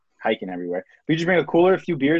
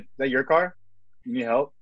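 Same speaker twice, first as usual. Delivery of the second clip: super calm. Retold or imitated. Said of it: "super calm and be like".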